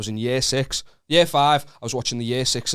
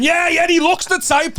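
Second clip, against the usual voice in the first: high, slow mocking bystander voice; 9 dB louder than usual. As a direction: sneer like a gossiping onlooker. Bystanders judging him.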